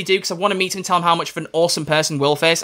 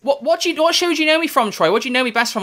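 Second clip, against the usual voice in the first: much higher, curious questioning voice; imitating Catherine; 8 semitones higher than usual. Actress asking fan which show, high imitation. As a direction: ask sweetly in her voice. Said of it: "she just basically went".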